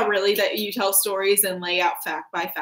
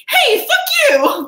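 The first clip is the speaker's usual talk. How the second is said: high, loud fuck you; a laughing yell at a partner; mock angry yell; 8 dB louder than usual. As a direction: snap it out half-joking. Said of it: "I'm just like".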